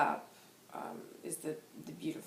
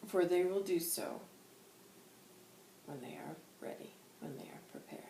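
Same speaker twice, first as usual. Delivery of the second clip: lightly voiced guide, slowing and fading; spirit guide; 2 semitones higher than usual. Spirit guide reassuring listeners who are not ready, measured and fading.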